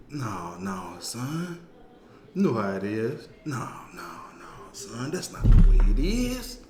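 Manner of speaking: lightly voiced stern old man; a hint of a lecturing grandpa; character voice. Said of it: "let me get into character on this one".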